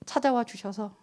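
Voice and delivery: soft, low-pitched prayerful appeal; quiet prayer. Real, not acted. Pastor leading listeners into closing prayer, quiet and pleading. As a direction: let the voice sink gently into prayer.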